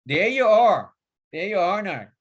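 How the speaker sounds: lightly voiced northern English "there you are now"; cheery Northern English sign-off; northern accent. Shown as a demonstration. The speaker rounds off his message in a northern accent. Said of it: "as I say in my northern accent".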